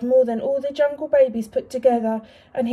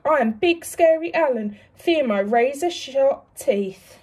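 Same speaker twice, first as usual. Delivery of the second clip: mock scary alligator; 2 semitones higher than usual. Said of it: "said things like".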